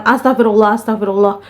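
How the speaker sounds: lightly mocking repeated chant. Ghost mocking A A's prayer from atop the wardrobe, lightly taunting. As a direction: imitate a ghost parroting a prayer in mild mockery. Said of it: "dengan nada ngejek berulang kali".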